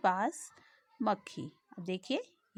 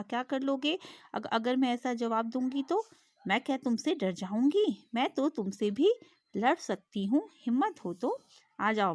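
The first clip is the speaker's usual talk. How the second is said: defiant fly. Acted. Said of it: "मक्खी ने शेर से कहा".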